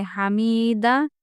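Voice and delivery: हामिदा with an added long ई sound; wrong lengthened vowel. Shown as a demonstration. Teacher showing pupils an error in हामिदा. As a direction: stretch the middle of हामिदा wrongly. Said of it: "यहाँ पे या बढ़ जा रहा".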